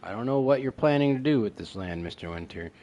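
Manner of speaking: emphatic, projected note reading; dramatic reading aloud. Pretend. Player reading a landowner's note, emphatic reading. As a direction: punch out the start of each phrase.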